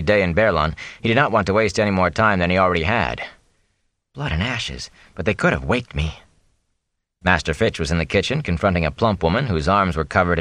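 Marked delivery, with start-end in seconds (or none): 4.1-6.2 muttered angrily. Acted. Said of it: "muttering angrily to himself".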